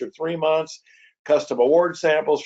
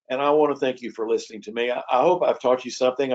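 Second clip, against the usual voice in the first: talking fast; faster than usual. Real, not acted. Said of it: "I've tried to talk as fast as I can".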